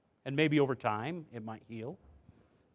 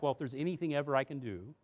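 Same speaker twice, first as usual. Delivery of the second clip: soft apologetic parent; 5 dB quieter than usual. Shown as a demonstration. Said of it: "say things like".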